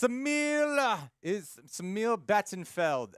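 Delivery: high drawn-out read. Acted. Reading super chat name.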